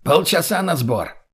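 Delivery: slow, drawn-out command; commanding order. Acted. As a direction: order them to get ready. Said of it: "настойчивый командный голос".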